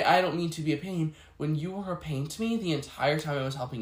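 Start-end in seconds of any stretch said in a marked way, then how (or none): 0.0-1.1 mocking fake politeness. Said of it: "Don't say".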